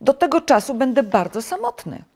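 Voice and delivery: dismayed complaint to a friend; protesting. A narrator's reading. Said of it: "zaprotestował Żabek".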